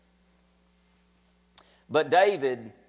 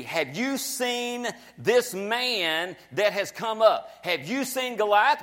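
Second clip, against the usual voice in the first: men of Israel, coaxing; 4 semitones higher, slower than usual. Acted. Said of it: "We want you to see as we see".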